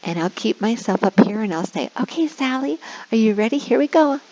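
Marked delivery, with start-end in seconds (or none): 2.0-4.2 put-on bright, high sing-song for a young child; kindergarten teacher voice. Shown as a demonstration. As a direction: cheer a little kid on. Teacher demoing to online student.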